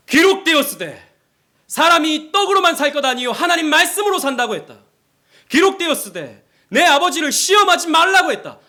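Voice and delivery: high, loud scriptural declaration; Jesus rebuking temptation. Acted. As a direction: proclaim it forcefully to repel the tempter. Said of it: "예수님은 마귀의 시험이 있을 때 어떻게 물리치죠".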